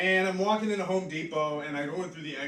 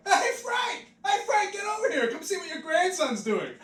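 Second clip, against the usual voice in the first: high, laughing ghost yelling across the room; excited ghost calling; 13 semitones higher, 5 dB louder than usual. Retold or imitated. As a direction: call out to a dead grandpa in a high, gleeful voice. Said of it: "one ghost is flying by and he's like".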